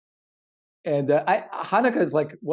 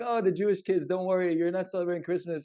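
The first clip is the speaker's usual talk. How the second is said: higher, sing-song mock comfort; mock consoling; 4 semitones higher than usual. Parodying adults consoling Jewish kids at Christmas, mock sweet. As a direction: pat the Jewish kids on the head, mockingly.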